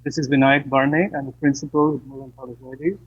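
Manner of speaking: call dropping out. Real, not acted. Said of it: "we still have a problem".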